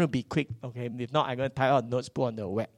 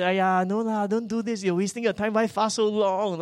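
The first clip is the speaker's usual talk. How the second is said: mock discouraging; 4 semitones higher than usual. Voicing well-meaning people who discourage fasting.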